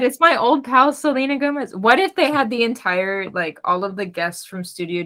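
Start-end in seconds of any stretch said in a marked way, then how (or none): 0.0-1.8 quoting Kermit. Retold or imitated. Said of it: "He said".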